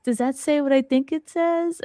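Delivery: high, astonished question; dad reading the pumpkin and realizing; imitating her dad. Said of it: "he was like".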